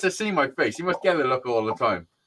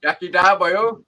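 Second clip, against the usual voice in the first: put-on Welsh accent; 2 semitones higher, 5 dB louder than usual. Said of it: "I did a Welsh one".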